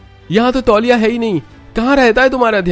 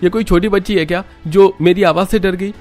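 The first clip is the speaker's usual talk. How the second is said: loud, much higher, defiant angry shouting; angry retort; 8 semitones higher, 4 dB louder than usual. Acted. Son argues back at his mother, angry loud retort. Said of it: "Rohan का गुस्सा देखकर".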